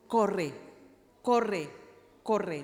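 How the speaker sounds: loud urgent repeated command; enemy's voice urging. Retold or imitated. Preacher voicing the enemy telling her to run, loud urgent. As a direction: bark it like a voice driving her to flee. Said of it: "empecé a escuchar una voz que me decía".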